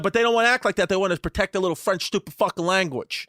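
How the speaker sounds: a hint of scornful Brooklyn lady; Brooklyn mother. Friend's mom ranting about French, lightly mimicked scorn. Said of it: "real deal Brooklyn lady smoking cigarettes".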